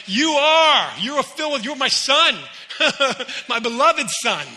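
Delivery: excited, loud proclamation with a laugh; joyful loud declaration. Retold or imitated. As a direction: proclaim it like the best news ever. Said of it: "I'm like".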